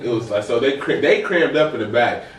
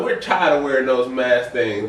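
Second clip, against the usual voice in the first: imitated Arkansas accent. Mimicking masked-off Arkansas tourists in the van, light Arkansas accent. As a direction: put on a hint of an Arkansas accent. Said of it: "I hate to talk like that".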